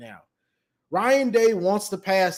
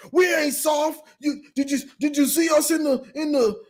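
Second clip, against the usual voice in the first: mock defensive protest; 7 semitones higher than usual. Mechanic protesting.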